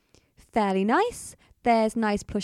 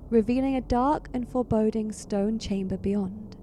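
measured, atmospheric narration; suspenseful storyteller delivery; game master's scene setting. A narrator's reading. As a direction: narrate a foreboding dream with deliberate pauses. Game master sets a dream scene.

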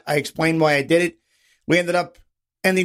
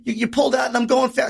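higher-pitched mock yell; retold screaming; 5 semitones higher than usual. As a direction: imitate an irate driver's protest. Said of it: "we both start screaming at the same time".

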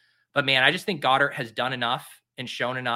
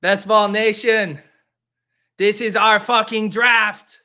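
put-on David Ortiz Dominican accent; 7 semitones higher, 9 dB louder, slower than usual. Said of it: "I can't do a Dominican accent".

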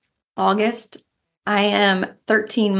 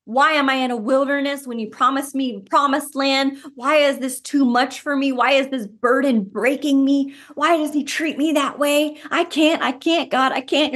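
raised, anguished cry of someone overwhelmed; desperate pleading to God; 4 semitones higher than usual. Acted. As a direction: plead like you're breaking under the burden. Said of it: "You're kicking and screaming".

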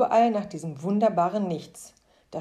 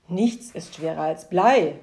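slow, louder, letdown repeat of the phrase; slow, louder, mildly disappointed sigh of a line; 5 dB louder than usual. Acted. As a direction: say it as a let-down man who just lost his pride. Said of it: "sagte der Mann enttäuscht".

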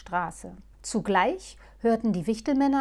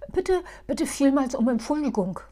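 Muff; 5 semitones higher, 6 dB louder than usual. Acted. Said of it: "sagte Muff".

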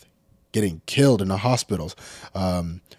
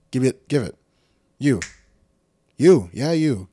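high, loud furious chief yelling; angry shout; 7 semitones higher, 7 dB louder than usual. Retold or imitated. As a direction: chew him out and take his badge, loud and high. Imagined chief yelling at cop.

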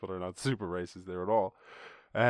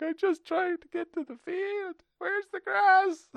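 high, slow, confused cow; 6 dB louder, slower than usual. Retold or imitated. A cow running from the guard, high slow confused voice. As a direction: squeak it out like a bewildered cow. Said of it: "Oh, he's like".

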